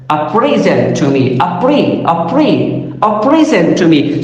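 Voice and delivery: PREsent, first syllable picked out; stress on first syllable. Shown as a demonstration. Lecturer demonstrating the noun in a sentence, PREsent stressed on the first syllable. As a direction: punch the PRE of present, repeating it alone. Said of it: "here the stress is over the first syllable".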